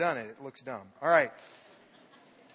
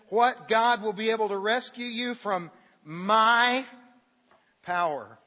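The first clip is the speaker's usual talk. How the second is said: indignant king; 4 semitones higher, 5 dB louder, slower than usual. Acted. King mocks their God.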